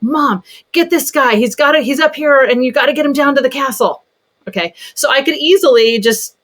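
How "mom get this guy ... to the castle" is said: a kid's eager request, voiced higher; imitating her son. Mother voicing her son asking for help with toy. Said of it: "he's like".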